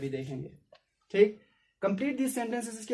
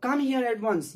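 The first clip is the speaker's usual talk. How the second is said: mock stern command, slow; ordering; 5 semitones higher, 4 dB louder, much slower than usual. Shown as a demonstration. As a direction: read it like a mother giving an order. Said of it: "my mother ordered me". (माँ का हल्का सख़्त हुक्म)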